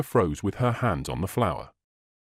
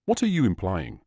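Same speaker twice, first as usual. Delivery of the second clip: outraged demand; 2 semitones lower than usual. A narrator's reading. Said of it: "demanded, clearly outraged".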